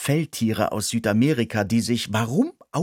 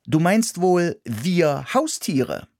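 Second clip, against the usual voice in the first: sceptical mouse; 7 semitones higher, slower than usual. Acted. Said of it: "gab ich zurück".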